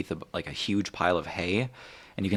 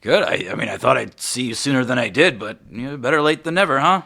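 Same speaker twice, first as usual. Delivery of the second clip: loud, higher, eager chatter; eager reunion; 7 semitones higher, 9 dB louder than usual. Acted. Ulrich to the brother he expected sooner, eager. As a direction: push the cheer up and out.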